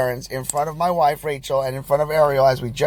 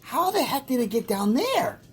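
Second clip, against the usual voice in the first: retold shock; 11 semitones higher than usual. Shocked at the diaper mess.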